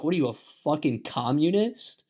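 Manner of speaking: mock-incredulous question with a rising end; lightly hammed-up indignant American; outraged American reaction. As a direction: act out a knee-jerk accusation. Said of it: "and they're like".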